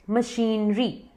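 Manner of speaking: मशीनरी as "muh-sheen-ree"; slow, split syllables in मशीनरी, long ee; correct pronunciation. Shown as a demonstration. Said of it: "correct pronunciation है". (मशीनरी को "मशीन-री" बोलें)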